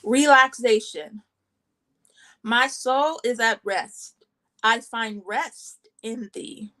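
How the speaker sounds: measured poem recital, pausing between short lines; spoken poem in short, separated phrases; poetry reading. Acted. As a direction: read your own poems aloud, phrase by phrase. Reads own poems aloud.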